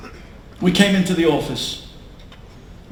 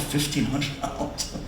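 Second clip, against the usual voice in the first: stunned disbelief; 3 semitones lower, 10 dB quieter than usual. Retold or imitated. Stunned aside to his wife.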